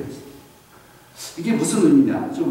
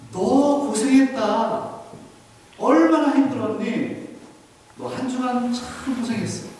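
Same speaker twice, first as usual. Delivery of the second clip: tender comforting God; 4 semitones higher than usual. Pretend. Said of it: "하나님께서 우리에게 그렇게 말씀하시더라고요". (지친 성도를 위로하는 하나님, 다정하고 느리게)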